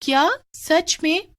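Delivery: can't believe it; amazed disbelief. Acted. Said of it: "Radha ये सुनकर चुप हो जाती है".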